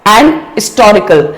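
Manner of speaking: "historical" with a silent h after "an"; slow "an historical", h dropped; old British pronunciation. Shown as a demonstration. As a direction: say "an historical" as "an istorical". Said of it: "it is an old British English".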